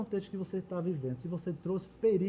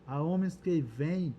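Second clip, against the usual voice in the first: scripture reading. A narrator's reading. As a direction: read out a challenge in measured phrases. Reads Nabal's scornful reply from scripture.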